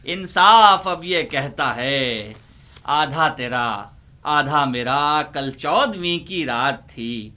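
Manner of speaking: ordinary talk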